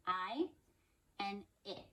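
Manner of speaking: I said as the long vowel, then it with a short clipped i. Shown as a demonstration. Teacher contrasting long and short I sounds for phonics. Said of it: "saying I ... saying it".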